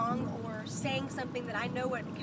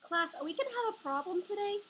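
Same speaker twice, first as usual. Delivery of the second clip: higher, fast warning to class; stern teacher voice; 6 semitones higher, faster than usual. Acted.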